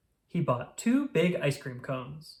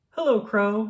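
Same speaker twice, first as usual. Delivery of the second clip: Toad's happy call, louder and higher; shouting; 6 semitones higher, 6 dB louder than usual. A narrator's reading. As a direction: call out cheerfully across the snow. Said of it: "shouted Toad".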